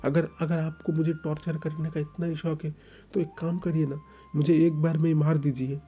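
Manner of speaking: stammering, pleading to be let go; distressed young lover. Acted. (दुखी, गिड़गिड़ाता हुआ ओइंग)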